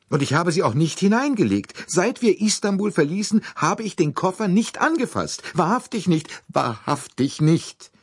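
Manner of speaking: sehr hoch, lauter, beschwörend; flehend. A narrator's reading. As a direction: bettelt verzweifelt um Glauben. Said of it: "Flehend und hilfesuchend". (flehend beteuert sie den Männern ihre Unschuld)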